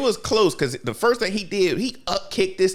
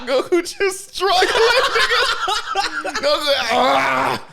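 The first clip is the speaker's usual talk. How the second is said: laughing shout; 12 semitones higher, 3 dB louder, much slower than usual. Real, not acted. Laughing, shouting Goku's struggle.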